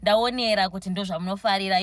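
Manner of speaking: high, bright eager server voice; excited high-pitched server impression; imitating excitement. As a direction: gush at the customer happily. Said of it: "just more excitement".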